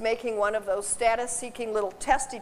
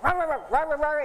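mock dog barking; 3 semitones higher than usual. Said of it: "You got a dog who's like".

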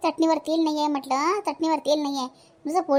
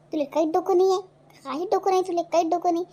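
angry scolding; 4 semitones higher than usual. Acted. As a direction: berate him like a fed-up mother. Mother scolding her grown son.

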